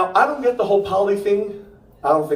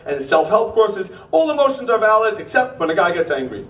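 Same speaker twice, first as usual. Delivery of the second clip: worked-up comic rant, pitched up at the start; exasperated rant; 2 semitones higher than usual. Acted. Comic rants to crowd about men's anger, exasperated. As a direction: rant on in mock outrage. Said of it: "That's the end of the rant".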